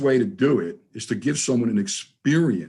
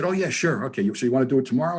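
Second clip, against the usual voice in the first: easy agreement; faster than usual. Retold or imitated. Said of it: "he said".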